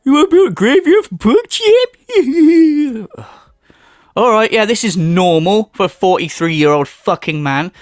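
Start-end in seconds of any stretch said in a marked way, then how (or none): 0.0-1.9 rising to a loud, high mock wail; mocking Phil. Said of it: "the timeline literally is". 2.1-3.2 high, loud laugh tipping into crying. Real, not acted. Laughing after mock wail.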